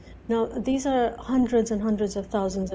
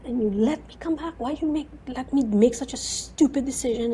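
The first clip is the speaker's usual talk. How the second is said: retold angry rant, pitched up; mad at God; 4 semitones higher than usual. Believer venting at Jesus over a bad decision, mock-angry. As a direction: re-enact a mild, indignant reproach. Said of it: "I'd be so mad at him".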